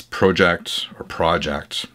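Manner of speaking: "Project" said first as PROH-ject with a long o, then as PRAH-ject with a short o; two pronunciations of Project. Shown as a demonstration. Vlogger unsure how to say the brand name, trying both pronunciations. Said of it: "some people say I'm wrong when I say Project".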